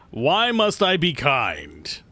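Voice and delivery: slow, drawn-out lament; dramatic. Pretend. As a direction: stretch it like a tragic hero. Dramatic rhetorical question.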